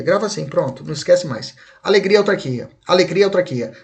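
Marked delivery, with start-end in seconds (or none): 1.8-3.7 quick repeated mnemonic, ALEGRIA as one word; said fast. Shown as a demonstration. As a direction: run "alegria, autarquia" together quickly. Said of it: "Se você falar rápido".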